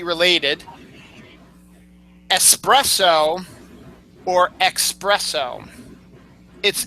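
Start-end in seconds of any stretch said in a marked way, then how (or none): 2.3-3.4 espresso with an S, "ess-PRESS-oh"; correct pronunciation. Shown as a demonstration. Host setting out the coffee word, correct pronunciation. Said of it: "It's not espresso". 4.6-5.7 espresso said as "ex-PRESS-oh"; mispronunciation. Shown as a demonstration. Host setting out the coffee word, mispronounced with an X. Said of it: "It's not espresso".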